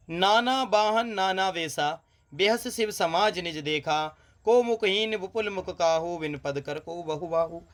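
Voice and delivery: measured verse reading; poem recitation. Acted. Teacher reciting the question verse to students, poem recitation. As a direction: chant the chaupai evenly.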